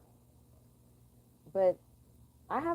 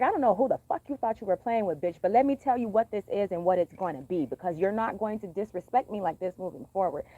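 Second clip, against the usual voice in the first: firm telling-off without yelling; stern, contained confrontation; controlled cussing-out; 2 semitones lower, 3 dB louder than usual. Acted. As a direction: lay down the law at a talking volume. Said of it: "I don't get much louder than I am right now".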